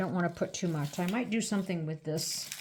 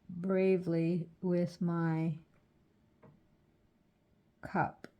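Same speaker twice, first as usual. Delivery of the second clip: holding breath; slower than usual. Real, not acted. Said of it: "Yes, I'm holding my breath".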